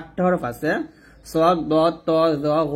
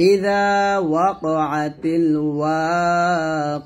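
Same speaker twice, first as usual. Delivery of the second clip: slow, drawn-out melodic tajweed chant; slow Quranic recitation; much slower than usual. Shown as a demonstration. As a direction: recite it slowly and reverently, stretching each vowel. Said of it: "এখানে আমরা একটা ভুল করি".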